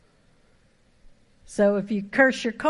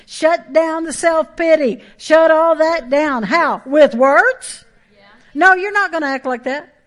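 louder, higher, hammering commands; full-force preaching; 7 semitones higher, 9 dB louder than usual. Acted. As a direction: preach it hard from the pulpit.

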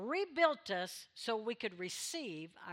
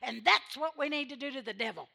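hollered; 6 dB louder than usual. Retold or imitated. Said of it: "Smith hollers out loud".

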